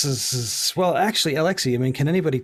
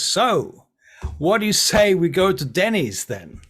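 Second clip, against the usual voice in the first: higher, louder cheerful invitation; Francesco's eager voice; 7 semitones higher, 7 dB louder, slower than usual. Acted. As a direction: pitch Denny's like an excited tour guide. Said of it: "Francesco says".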